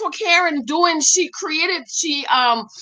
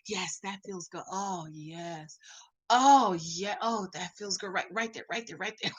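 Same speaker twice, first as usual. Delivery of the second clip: low, hushed mock-sensual moans; imitated pleasure moaning; 6 semitones lower, 12 dB quieter than usual. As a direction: murmur softly as if enjoying a massage. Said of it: "He was moaning and groaning like he was in the".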